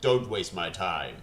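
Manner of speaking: very low, rasping whispered growl; deep voiceless superhero rasp; Batman. Acted. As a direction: play a low, husky masked vigilante. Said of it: "He is using his Batman voice".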